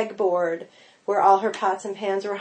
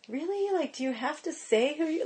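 incredulous; 7 semitones higher, 9 dB quieter than usual. Retold or imitated. Inner incredulous thought.

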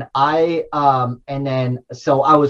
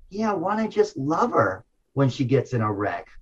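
relaxed and joyful; 6 dB quieter than usual. Retold or imitated. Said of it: "I got so relaxed".

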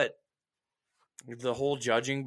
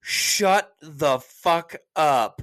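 wife telling him off; 2 semitones higher, 6 dB louder, much slower than usual. Retold or imitated. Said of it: "my wife was like".

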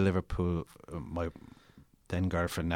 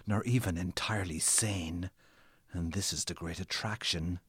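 dramatic story reading. Acted. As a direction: read your own novel like a performance. Author reads his novel aloud.

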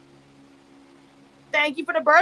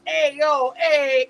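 lightly mocking Pooch voice, drawn out; a hint of an imagined Pooch calling out; Pooch impression; 2 semitones higher than usual. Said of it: "If Pooch sounds like this".

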